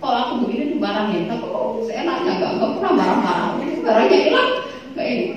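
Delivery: lightly voiced protesting kid, half laughing; a small child complaining to mum, giggly; mild mock child whine. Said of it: "Anak saya T K udah bisa protes".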